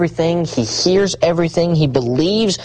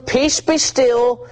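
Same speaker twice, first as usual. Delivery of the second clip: slow command; 9 semitones higher, much slower than usual. Acted. Preacher voicing Christ's command.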